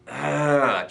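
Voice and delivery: stressed "ugh"; tight, overwhelmed groan. Shown as a demonstration. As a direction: groan out the tension. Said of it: "just tight and overwhelmed".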